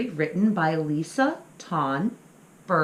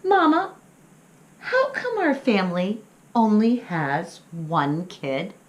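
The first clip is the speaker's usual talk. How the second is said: little pup voice; 3 semitones higher, 5 dB louder than usual. Acted. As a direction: play the curious little pup asking mama. Child pup character voice.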